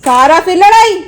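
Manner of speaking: loud scolding call; exasperated loud scold at the parrot; exasperated shout. Real, not acted. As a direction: yell at her for fighting again. Parrot fighting again, scolding.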